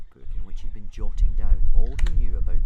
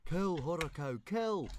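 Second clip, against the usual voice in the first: urging pet dragon; 9 semitones higher, 17 dB quieter, slower than usual. A narrator's reading. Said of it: "said Fishlegs to Horror Cow".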